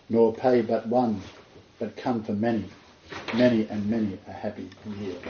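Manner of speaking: rising then fading verse reading; poem recital. Acted.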